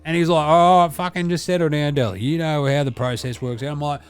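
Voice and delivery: a brash, sweary ocker lad; Deli character. Acted.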